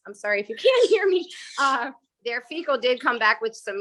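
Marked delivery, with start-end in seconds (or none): 0.1-1.3 laughing apology. Real, not acted. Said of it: "excuse me, I'm".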